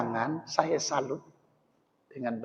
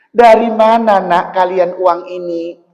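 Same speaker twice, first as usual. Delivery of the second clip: raised, astonished father; father's surprised question; 4 semitones higher, 11 dB louder than usual. Acted. Father asking his children where the money came from. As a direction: ask like a stunned old father.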